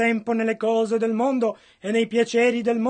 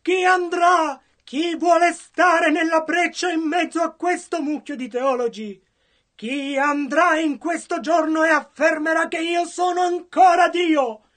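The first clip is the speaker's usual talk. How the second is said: preached call; 5 semitones higher than usual. Acted. Interpreter voicing God's call.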